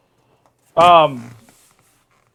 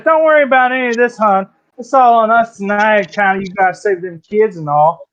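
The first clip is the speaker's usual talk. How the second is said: higher, breezy barmaid line; lightly voiced barmaid; 4 semitones higher than usual. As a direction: barmaid reassuring her heroes, lightly pitched up. Game master voices the barmaid.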